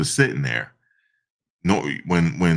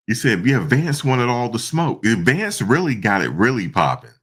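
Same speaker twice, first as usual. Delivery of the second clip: usual speaking voice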